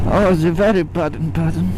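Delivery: mock German accent, Baden with a hard p; hammed-up German voice; fake German accent. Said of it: "the fake German accent".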